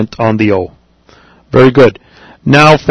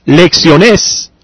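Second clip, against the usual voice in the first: lecciones with the final -nes stressed, pitch raised; stress on last syllable; 4 semitones higher than usual. Shown as a demonstration. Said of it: "If I had said".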